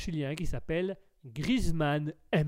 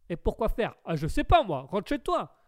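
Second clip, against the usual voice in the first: quick comic back-and-forth; lightly imitated sketch bickering; Les Inconnus sketch impression; 2 semitones higher than usual. Streamer replays both sides of a sketch, lightly mimicked. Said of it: "c'est les inconnus".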